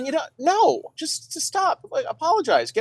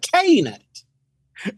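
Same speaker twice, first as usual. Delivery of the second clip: radio announcer voice; 4 semitones higher, much slower than usual. Shown as a demonstration. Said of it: "I can do it".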